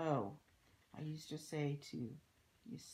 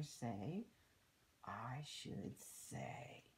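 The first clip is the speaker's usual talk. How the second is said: put-on lilting story verse for children; read-aloud rhyme; 5 dB louder than usual. A narrator's reading. Reading a rhyme about littering to children, storybook read-aloud. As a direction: read the verse out clearly, in measured phrases. Reads a rhyming book aloud.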